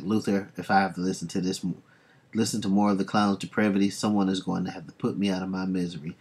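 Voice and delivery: fast, impatient delivery; rushed quote. Retold or imitated. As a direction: rattle it off quickly, fed up. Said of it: "Grog's like".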